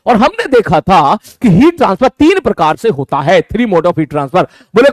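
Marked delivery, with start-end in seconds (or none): 3.4-4.5 each word stretched out for note taking; slow dictation. Shown as a demonstration. Teacher dictating the heading slowly to the class. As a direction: say it slowly so they can write.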